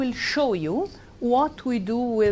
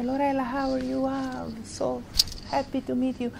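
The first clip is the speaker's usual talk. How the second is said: happy greeting; 5 semitones higher, 3 dB quieter than usual. Retold or imitated. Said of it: "he seems very happy to meet me".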